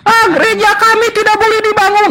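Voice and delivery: high mock whine; mock crying. Mocking a crybaby congregation, with a high whine.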